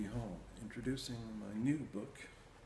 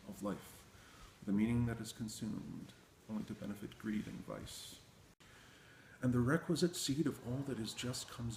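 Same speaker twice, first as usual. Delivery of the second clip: measured, even-toned poem recitation; poetry reading; 3 semitones higher, 3 dB louder than usual. Acted. Poet reading selections from the new book, poetry recitation. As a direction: read verse aloud in long, steadily flowing phrases.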